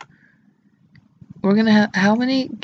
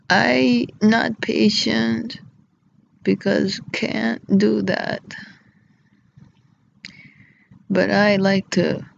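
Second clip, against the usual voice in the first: slow, broken-English impression; Vlad; slower than usual. Mimicking Vlad's impatience for the listeners, slow impression. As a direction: lightly imitate a halting foreign speaker. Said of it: "That's how he does it".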